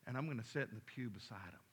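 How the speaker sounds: a hint of a cunning elder devil; quiet, knowing old demon confiding to comrades; sly old demon, low. Older wiser demon speaks.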